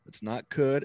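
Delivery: COULD set up in contrast; stress on COULD. Shown as a demonstration. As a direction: mark "could" as the rejected word. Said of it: "see, the word that I'm using now".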